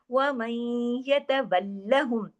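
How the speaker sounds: very slow chanted recitation; Quran recitation. Shown as a demonstration. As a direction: recite with idgham, drawn out. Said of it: "तशदीद है उसका हक अदा". (धीमी तजवीद वाली तिलावत)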